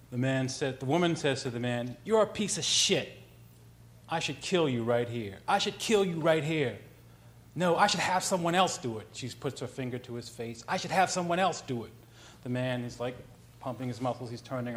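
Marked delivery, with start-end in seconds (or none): 2.0-9.1 mock-angry woman threatening on the street; retold threat, pitched up on the repeats; acted threat. Woman threatens the man on a street corner, acted angry. 10.7-11.9 retold angry threat, higher voice; acted threat. Woman with finger in his face, acted threatening.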